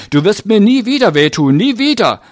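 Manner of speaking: put-on high-pitched yelling boy; shouted. A narrator's reading. Boy punching the man he accuses, shouting. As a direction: cry out high and loud, climbing at the end. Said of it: "schrie er".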